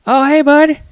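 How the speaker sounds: high, loud cheery dad voice; high excited hello to a toddler; sing-song greeting to toddler. Retold or imitated. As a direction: greet a little kid brightly.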